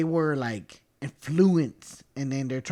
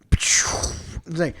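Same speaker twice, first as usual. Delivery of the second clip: whisper; 3 dB louder than usual. Retold or imitated. Theater goes quiet before Vader.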